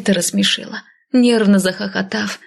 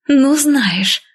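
indignant, higher-pitched retort; through clenched jaw; 6 semitones higher, 3 dB louder than usual. A narrator's reading. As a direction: push the words through the teeth. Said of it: "стиснув челюсть, процедила я". (возмущённо, стиснув зубы)

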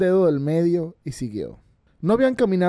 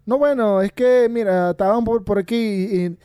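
higher, louder, nervous stammer; trembling; 6 semitones higher, 4 dB louder than usual. A narrator's reading. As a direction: stammer it out, shaken and scared. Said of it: "tembló y le dijo".

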